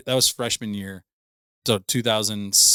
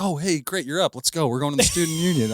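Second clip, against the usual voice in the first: higher, bright mock girl voice; imitating her; 6 semitones higher than usual. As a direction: lightly play her cheerful invite. Girl voiced in retold story.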